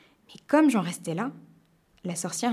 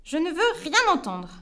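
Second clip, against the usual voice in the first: much higher witch voice, mocking and imperious; 8 semitones higher than usual. The witch setting him three impossible tasks, smug. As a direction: lay down the challenge like a smug witch.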